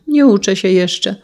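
put-on little girl voice.

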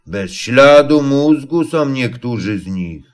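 ordinary delivery, nothing marked

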